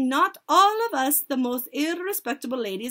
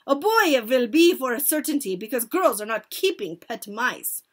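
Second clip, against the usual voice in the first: loud, higher-pitched scolding as the witch; shouted; 4 semitones higher, 9 dB louder than usual. A narrator's reading. Grand High Witch denouncing the pet mice, shouted. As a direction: declaim it loudly to a hall. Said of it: "she shouted".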